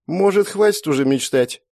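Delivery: ironic. A narrator's reading. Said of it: "иронично бросила".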